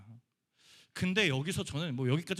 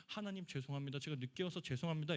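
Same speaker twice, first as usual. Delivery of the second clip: tearful prayer; 4 dB quieter than usual. Retold or imitated. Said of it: "이랬는데".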